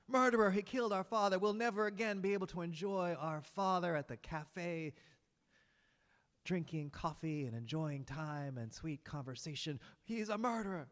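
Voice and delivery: high, loud accusation to the crowd; accusing brothers. Acted. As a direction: cry out to the whole town.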